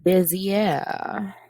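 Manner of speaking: a quick mock French "Bezier"; playful French pronunciation of "Bezier"; French accent. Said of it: "I know y'all like that French accent".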